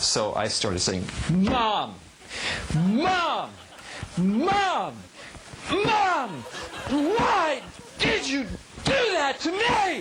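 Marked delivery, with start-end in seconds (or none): 1.3-10.0 very high, very slow, drawn-out hollering. Angry at their mother, the speaker cries out to her, yelling.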